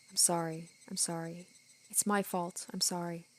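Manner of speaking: a faint ghostly apology; soft apology. Acted. Oyashiro-sama apologizing endlessly.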